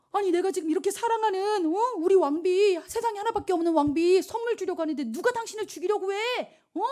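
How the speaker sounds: high-pitched, incredulous protest; acted indignant outrage. King learns someone threatens his queen, hammed-up indignation. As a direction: bluster as the offended husband.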